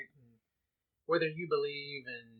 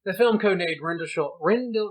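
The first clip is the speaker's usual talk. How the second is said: laughing; 6 semitones higher, 17 dB louder than usual. Pretend. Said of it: "I can only say it if I do it".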